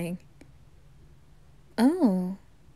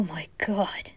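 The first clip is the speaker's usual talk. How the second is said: whispering; 3 semitones lower, 7 dB quieter than usual. Acted. Awed whisper after tasting drink.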